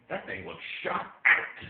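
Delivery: high and loud, drawn out; slow, loud punchline; exclaimed mock verdict. Comic answering a proud parent, loud mock verdict.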